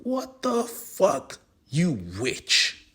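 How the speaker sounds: very high slow yelp of pain; shocked pained cry; pained shriek. Acted. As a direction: shriek as the ankle cracks. Ankle cracked, pain.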